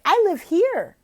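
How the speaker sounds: high, loud, slow delight; excited pointing. Shown as a demonstration. Tutor excitedly shows Oklahoma on the map. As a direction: show the map with enthusiasm. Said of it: "I'd be like".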